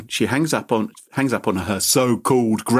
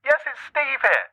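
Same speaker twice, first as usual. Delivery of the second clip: higher, eager fake grandson; imitating the scammer; 5 semitones higher than usual. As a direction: grab the chance, play the grandson. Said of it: "And he said".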